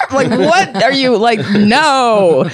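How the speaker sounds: words through laughter, slowed; laughing. Real, not acted. Laughing at the preacher's talk to friends.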